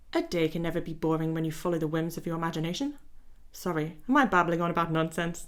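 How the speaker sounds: lightly voiced vain gentleman reading his lines; a hint of a fussy dandy, unhurried; Elliot voice. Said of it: "That's my Elliot voice".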